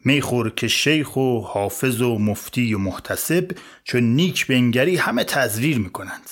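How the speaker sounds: slow, drawn-out echo of the verse; slow, mocking repeat of the poem. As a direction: repeat it slowly, tasting each word. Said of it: "شروع کرد به لرزیدن".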